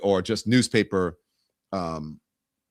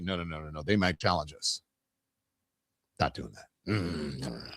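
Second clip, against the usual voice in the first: mock refusal; 8 semitones lower, 10 dB quieter than usual. Voicing refusal, mocking.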